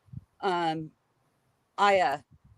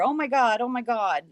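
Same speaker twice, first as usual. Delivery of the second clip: frantic oh my God; 4 semitones higher than usual. Retold or imitated. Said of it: "she's never heard me so hysterical".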